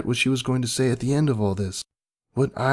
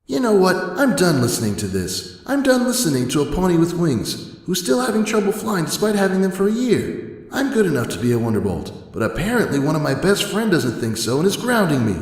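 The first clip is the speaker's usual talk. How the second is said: furious rant; 7 semitones higher than usual. Acted. Dash raging at Twilight for grounding her. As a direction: let the anger pour out.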